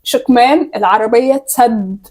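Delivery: slow, carefully mouthed; slowly. Shown as a demonstration. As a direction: draw each word out for lip reading. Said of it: "بالراحة".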